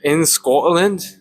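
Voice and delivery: drawn-out, half-hearted Scottish attempt; failed Scottish accent. Host naming where he would live, failed Scottish accent. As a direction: slowly try and miss a Scottish accent. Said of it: "I can't do the accent".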